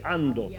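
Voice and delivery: Andote said without the d- and with a clear final t; Gascon pronunciation. Shown as a demonstration. Correcting a place name, he gives the right Andote. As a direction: say Andote with the last t sounded. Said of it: "ce n'est pas d'Andote, c'est".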